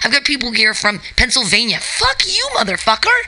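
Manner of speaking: mock furious rant, not really said; hammed-up yell of what he wished he said; imagined tirade. Telling off the comic who wanted a guest set, mock angry. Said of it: "I didn't say all that".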